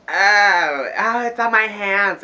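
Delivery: panicked high yelps; rising panic as it spreads; alarmed. Retold or imitated. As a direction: recoil in disgust, voice jumping up. Panic at piss on hands.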